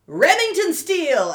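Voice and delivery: name called out high and loud; announcer call. Retold or imitated. Guy on stage announces the name, calling out. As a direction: boom the name like an emcee.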